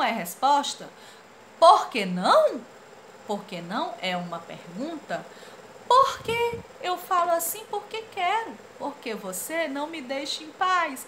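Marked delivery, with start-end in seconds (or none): 1.6-2.6 loud cartoon question. Voiced comic character. 5.9-11.1 high annoyed cartoon voice. Voiced annoyed comic character.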